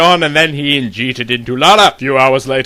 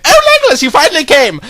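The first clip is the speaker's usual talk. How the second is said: squealed high, much higher oh; excited relief; 11 semitones higher, 4 dB louder, faster than usual. Acted. Lorna crying out in relief as Legolas reaches her cell. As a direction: burst out in relief.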